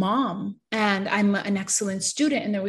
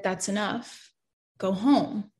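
firm but kind; slower than usual. Retold or imitated. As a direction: say it like a gentle but firm father. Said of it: "it was firm but kind".

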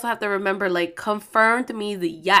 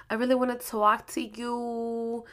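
a little sad; 4 dB quieter than usual. Retold or imitated. Boyfriend asking his girlfriend to stop and talk, a little sad. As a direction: mimic a boyfriend's soft, downcast tone. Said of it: "you sound like that".

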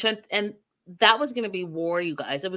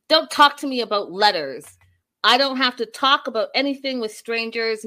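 louder, emphatic mock-angry refusal; retold super pissed; 2 semitones higher, 6 dB louder than usual. Retelling a mother refusing her son's questions about letters, mock pissed. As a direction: imitate someone angrily shutting down questions. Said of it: "Super pissed".

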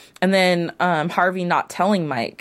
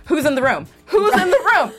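high mock yell, building higher; retold screaming; 9 semitones higher than usual. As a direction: re-enact yelling at the TV, second time more frantic. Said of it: "I was screaming at my T V".

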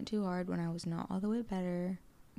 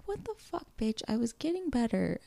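outraged disbelief; 4 semitones higher than usual. Retold or imitated. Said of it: "I'm like".

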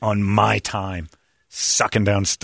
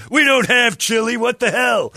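higher, louder, slow exasperated repeat; exasperated retort; 13 semitones higher, 5 dB louder, slower than usual. Retold or imitated. Waiter retells snapping at customer, loud and exasperated. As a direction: throw up your hands, loud and slow.

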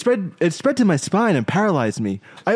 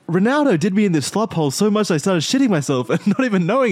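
laughing while reading; 4 semitones higher than usual. Real, not acted. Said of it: "I can't get through a sentence without laughing".

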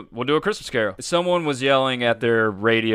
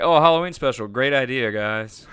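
mock enthusiasm. Mocking the hosts' obvious idea.

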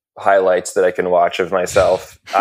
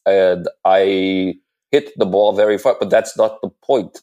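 lightly voiced senator oratory; a hint of a pompous senator, hand pointing; Bernie Sanders impression. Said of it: "Senator Sanders impression".

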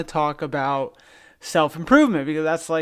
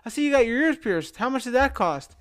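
pirate voice; 8 semitones higher than usual. Retold or imitated. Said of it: "one goes to the other and goes".

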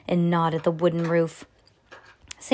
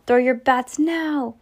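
yelled order; 6 semitones higher, 3 dB louder, slower than usual. Acted. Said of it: "Sam yelled".

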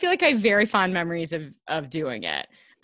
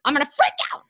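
retold frustration; 6 semitones higher, 3 dB louder, much faster than usual. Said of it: "when I was like".

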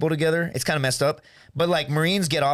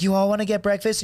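imitated guitar girl; 5 semitones higher than usual. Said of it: "and she's like".

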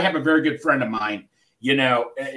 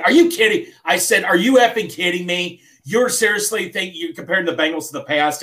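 harsh retort; 3 semitones higher than usual. Retold or imitated. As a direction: snap back at a nervous friend in a mild retold rant. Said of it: "why are you getting so harsh?".

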